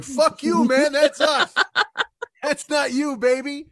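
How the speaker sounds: indignant joints claiming the credit; pissed-off knees. Acted. Jesus's knees telling Jesus off, high and indignant.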